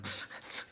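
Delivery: short breathy sniffs; imitated dog sniffing. Hound coming closer to hidden man, imitated sniffing. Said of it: "just sniffing".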